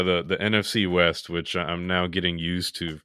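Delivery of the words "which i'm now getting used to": ordinary delivery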